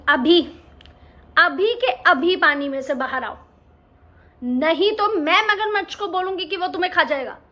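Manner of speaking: a hint of an angry mum; stern mother. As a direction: order the cub out now. Mother scolds cub sternly.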